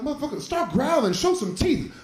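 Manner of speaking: egging on the dog. Retold or imitated. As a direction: hype up the bulldog to go fight. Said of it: "I'm like".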